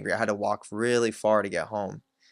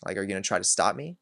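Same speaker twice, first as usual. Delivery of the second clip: defiant challenge; much faster than usual. Retold or imitated. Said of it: "putting up the energy of".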